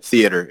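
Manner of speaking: "theater" as "THEE-uh-ter", falling; correct English pronunciation. Shown as a demonstration. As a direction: repeat "theater" as a model, stress on the first syllable. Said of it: "how do you say it".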